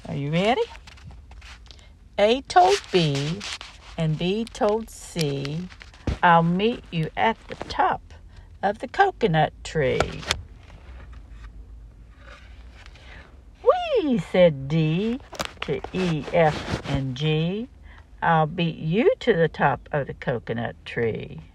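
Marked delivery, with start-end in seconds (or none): 2.2-10.2 put-on lively singsong read-aloud for kids; reading to children. Reads picture book aloud. 13.6-14.2 high squealing whee; gleeful whee. Acted. Letters racing up the tree. 14.2-21.4 put-on lively singsong read-aloud for kids; reading to children. Reads picture book aloud.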